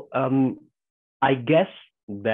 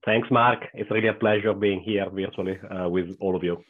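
slightly rough, hoarse voice from a cold. Real, not acted. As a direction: speak through the tail end of a cold. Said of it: "apologizing with my voice, uh, for my voice. Um, I'm coming out of a really annoying cold".

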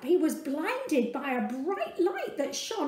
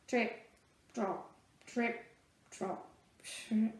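spaced, fading trip-trot; tired clip-clop fading out; 3 semitones lower, 7 dB quieter than usual. Acted. Donkey slowing down.

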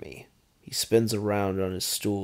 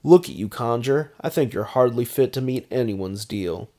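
higher, louder sneering taunt; a cocky baron's higher sneer; mocking vampire baron; 4 semitones higher, 7 dB louder than usual. A narrator's reading. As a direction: needle him about his god. McKinn mocks Conjur.

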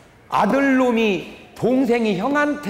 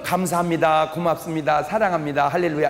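mock pious phrases; 5 semitones lower than usual. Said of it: "우리는 이쪽은".

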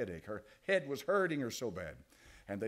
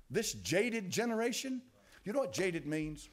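scornful; 7 semitones higher than usual. Acted. Preacher derides the generation.

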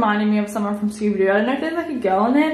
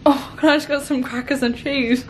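retold meek request. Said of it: "And I was like".

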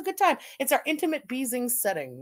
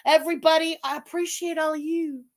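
gushing like a hippie; a hint of hippie in heartfelt thanks; 3 semitones higher than usual. Real, not acted. Streamer thanking everybody in chat, hippie-like gush. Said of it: "I sound like a hippie".

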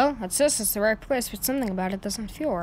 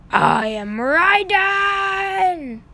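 slow, drawn-out loud declaration, pitched up; booming slow proclamation; 9 semitones higher, 7 dB louder, much slower than usual. Acted. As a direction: announce yourself like a villain. Villain proclaims himself dramatically.

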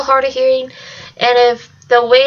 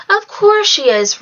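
no doubt at all; 9 semitones higher, slower than usual. A narrator's reading. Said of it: "Red said without a silver of doubt".

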